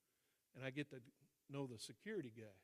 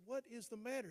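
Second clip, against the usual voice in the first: high, louder retold demand; exasperated demand; 9 semitones higher, 5 dB louder than usual. Confronting an upset friend in the car, exasperated. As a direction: demand an answer, pitched well up. Confronting her after tirade.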